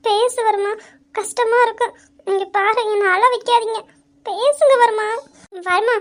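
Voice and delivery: choked-up plea; tearful pleading. Acted. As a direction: voice catching on the edge of tears. Wife pleading for forgiveness.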